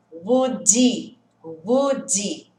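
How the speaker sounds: "Would he" said as "wud i", H dropped; "Would he" with the H swallowed; linked, no H sound. Shown as a demonstration. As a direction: run "would he" together so it sounds like "woodee". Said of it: "o som do H vai sumir".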